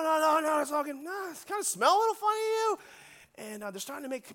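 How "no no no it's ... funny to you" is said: higher-pitched mock teen voice; puzzled, pitched-up teenager; teens sniffing brownies. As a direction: imitate a kid growing suspicious. Voices suspicious teenagers eating brownies.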